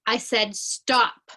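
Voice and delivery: slow, firm teacher warning; stern classroom command; sterner voice. Shown as a demonstration. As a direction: put your foot down, slowly and firmly. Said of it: "this time you say it in a sterner voice".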